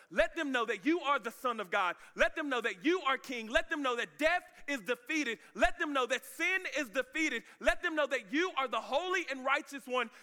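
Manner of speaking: acted followers pressing their king; fervent urging. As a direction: build it phrase by phrase, high and insistent. Apostles urging Jesus to reign.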